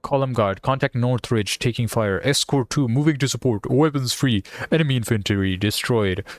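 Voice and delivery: lightly put-on American accent. Player reading escort's combat report aloud, light American accent. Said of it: "I'm talking an American accent".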